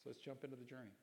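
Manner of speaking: usual speaking voice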